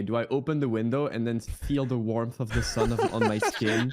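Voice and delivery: talking through a laugh; giggling through the words. Real, not acted. Laughing while describing.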